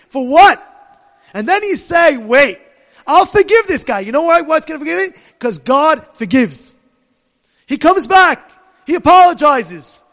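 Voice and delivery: loud, high, urgent sermon; preaching at full force. Acted. Rabbi urges the congregation to forgive, preaching loudly. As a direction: drive the point home with force.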